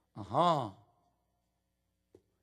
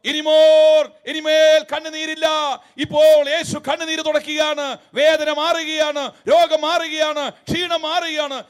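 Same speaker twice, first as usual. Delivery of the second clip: imitating a booming revival preacher, louder; mock grand preacher; 3 semitones higher, 5 dB louder than usual. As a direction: ham up the big stage sermon. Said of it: "ഗംഭീരമായ പ്രസംഗം".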